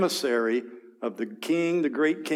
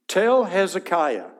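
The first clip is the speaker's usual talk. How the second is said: slow, higher, louder dismissive order; disrespectful command; 6 semitones higher, 5 dB louder, slower than usual. Acted. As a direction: bark it with contempt. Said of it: "not King Hezekiah, a little bit of disrespect".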